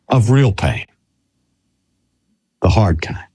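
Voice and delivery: hushed whisper. Acted. Sermon hushed on real pain.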